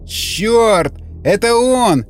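a man losing his mind to the noise; frantic. Acted. Tormented man cursing the creature.

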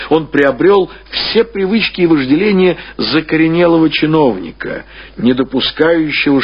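ordinary talk, nothing marked

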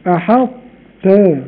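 very slow أحطت, ط kept heavy; أحطت with trace of ط; partial merge. Shown as a demonstration. Teacher demonstrating exception. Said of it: "فرط".

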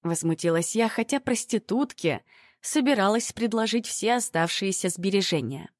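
usual speaking voice

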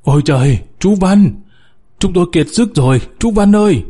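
exhausted miner begging the rescuer; frantic. A narrator's reading. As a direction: plead in a rush of panic. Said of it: "Ông Thạch Ngầu cuống cuồng".

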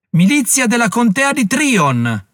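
grido alto, forte e lento; con tutta la voce. Acted. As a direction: chiama la milizia con tutto il fiato. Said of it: "Parlò con quanta voce aveva". (il generale chiama la milizia con quanta voce ha)

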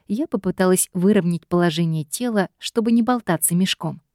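ordinary delivery, nothing marked

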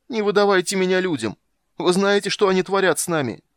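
loud, high-pitched desperate pleading; heart-rending wail. A narrator's reading. Doppler begs not to be handed over to humans, wailing. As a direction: beg for your life in a piercing wail. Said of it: "душераздирающе завопил Доплер".

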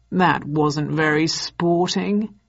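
slow, smiling mock reproach; slow, amused reproach; with a smile. A narrator's reading. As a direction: chide her with a smile. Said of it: "he said with a smile".

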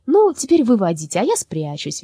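bright, lively call; cheerful. Acted. Lyolya inviting the women to seek, cheerful. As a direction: say it happily. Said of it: "весело сказала Лёля".

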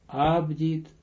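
normal talking voice

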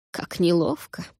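lightly voiced teasing whisper; mocking whisper. A narrator's reading. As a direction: tease them under your breath. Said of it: "насмешливо прошептал Муирн".

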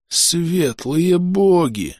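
very slow, raspy gasp of dismay; a dazed mayor croaking in shock; hoarse croak. Acted. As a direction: wheeze it out, dazed. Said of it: "прохрипел он".

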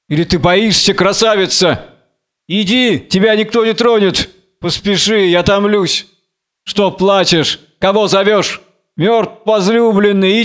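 impassioned summons, rising into indignant questions; urging Samson. Acted. Samson urges the lioness. (настойчивый призыв Самсона, повыше)

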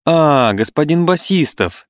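high, slow glad recognition; finally recognize him with a cry; surprised exclamation. Acted. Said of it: "воскликнула она наконец". (радостно-удивлённый возглас)

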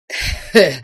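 short throaty grunt after a drink; satisfied grunt. A narrator's reading. Watchman just downed a glass of vodka, satisfied grunt. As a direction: grunt with relish after a shot. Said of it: "крякнул груздок".

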